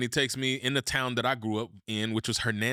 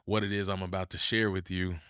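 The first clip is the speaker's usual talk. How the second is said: tone shift, solemn; 4 semitones lower, 3 dB quieter than usual. Real, not acted. Telling the audience why the team made him believe, hushed and solemn. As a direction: drop into a heavy, heartfelt hush. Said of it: "watch my tone shift here".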